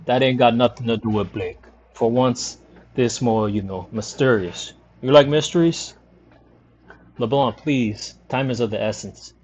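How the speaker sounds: lightly voiced boastful barfly; a hint of a slurring bar sleuth; drunk sleuth LeBlanc. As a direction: tease the visitors like a cocky old drunk.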